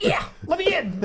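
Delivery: high, drawn-out mock demand; comic high-pitched impersonation; imitating the chef. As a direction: play the insistent caller, slow and high. Voices chef demanding entry.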